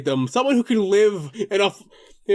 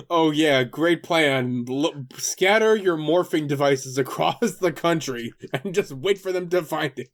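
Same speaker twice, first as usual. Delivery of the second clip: sarcastic; 4 semitones lower than usual. Acted. Mocking the plan.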